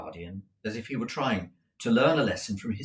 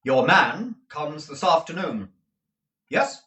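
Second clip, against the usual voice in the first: louder, higher, impatient question; demanding lawyer; 6 semitones higher, 7 dB louder than usual. Acted. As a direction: press for an answer. Jaggers questioning.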